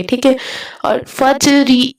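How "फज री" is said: "फज री" slowly, ज clearly bounced; bounced jeem. Shown as a demonstration. Teacher demonstrating "फज री" to students, slow with ज bounced. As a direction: draw out "फज री", bouncing the ज before री. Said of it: "इस तरह मतलब जीम को आपने हलाना है".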